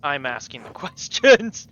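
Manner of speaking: loud bad-cop demand; hammed-up bad cop, laughing through it. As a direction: lean on him like a bad cop, loud and amused. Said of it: "bad cop on this one".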